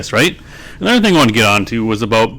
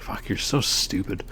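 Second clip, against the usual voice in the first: muttered mock quote; 3 semitones lower, 12 dB quieter than usual. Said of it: "It's like".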